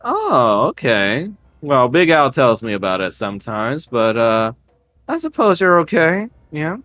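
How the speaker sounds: lightly voiced bayou matriarch, teasing; suspicious swamp witch. Witch eyeing the church man, teasing and lightly voiced. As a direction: tease him with a veiled threat. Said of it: "She looks at".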